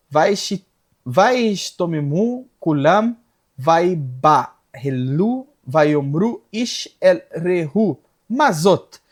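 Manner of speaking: slow, drawn-out Hebrew reading; deliberate, stretched verse reading; scripture recitation. Real, not acted.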